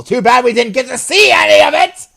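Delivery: high exaggerated cry of disappointment; loud joking complaint. Real, not acted. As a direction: overplay the letdown. Joking complaint after shrine.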